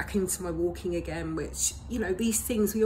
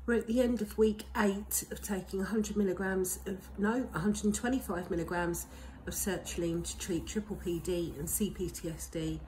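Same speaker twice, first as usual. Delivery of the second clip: speech slightly off from broken teeth; talking funny from broken teeth; 3 semitones higher than usual. Real, not acted. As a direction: talk around broken teeth. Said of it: "sorry if I'm talking a bit funny".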